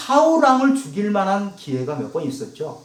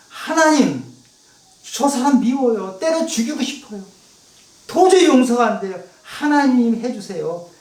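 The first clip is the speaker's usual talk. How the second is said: higher, pleading outburst; complaining to God; 4 semitones higher than usual. Retold or imitated. Preacher showing the congregation how to vent to God. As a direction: pour out your anger to God. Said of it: "하나님께 하소연하면서".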